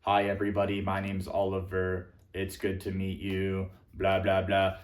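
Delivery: flat one-pitch robotic delivery; monotone. Shown as a demonstration. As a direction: speak like a bored robot on one note. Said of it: "when I speak in just one pitch".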